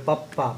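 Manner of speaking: পাপ্পা said with a doubled p; পাপ্পা voiced as a triple tap; pronounce the bol. Shown as a demonstration. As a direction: snap পাপ্পা as three quick strokes. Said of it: "তিনটা টোকা হবে".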